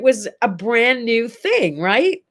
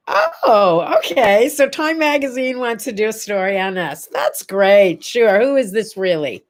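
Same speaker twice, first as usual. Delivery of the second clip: retold mock-impressed disbelief; sceptical humouring. Woman humours a supposed Time Magazine prank caller, sceptically. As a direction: play along as if it's a prank.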